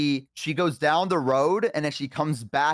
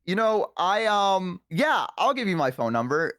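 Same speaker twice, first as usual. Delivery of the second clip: hesitant, higher-pitched acted panic; panicking; 5 semitones higher than usual. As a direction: stall reluctantly in mild mock panic. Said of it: "and so I'm panicking".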